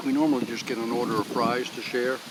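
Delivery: talking while chewing; words through a mouthful; mouth full. Real, not acted. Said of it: "Now I'm gonna talk with my mouth full".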